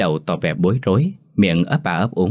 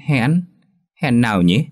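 bewildered question; 4 semitones higher, 3 dB louder than usual. Acted. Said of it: "Mình ngỡ ngàng".

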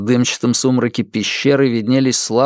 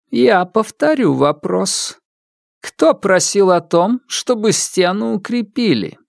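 cold overseer demanding answers; stern widow; 8 semitones higher than usual. Acted. Widow Horiks interrogates ghosts.

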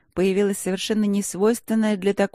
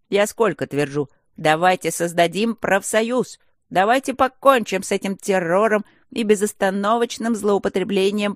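rabble-rousing gargoyle; 3 semitones higher, 4 dB louder than usual. Acted. Gargoyle makes a mock union speech against the rector, rousing. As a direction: whip up a pretend revolution.

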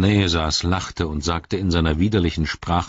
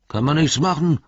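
much higher, louder goblin voice; a squeaky orc shrugging it off; shrill orc; 10 semitones higher, 4 dB louder than usual. A narrator's reading. Another orc answering, high squeaky goblin.

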